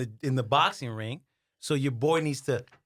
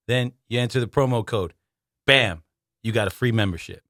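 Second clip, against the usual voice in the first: booming salesman rattle-off; loud rapid instructions; 8 dB louder than usual. Retold or imitated. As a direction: bark the steps like an infomercial. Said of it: "And he goes".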